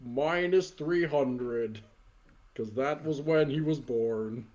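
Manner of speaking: slow, booming Santa taunt; lightly voiced burly Santa; Santa promo. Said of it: "Santa crosses his arms".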